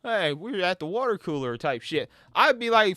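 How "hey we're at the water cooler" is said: a hint of a chirpy office worker; lightly mock a cheerful coworker at the water cooler. Mocking Gambit talking like an office worker, lightly chipper. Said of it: "talking like some just office worker".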